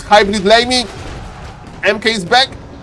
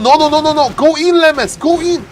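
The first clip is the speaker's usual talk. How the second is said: high, quick burst of protest; sudden high-pitched alarm; alarmed urging; 6 semitones higher than usual. Real, not acted. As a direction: urge the player in with rising panic.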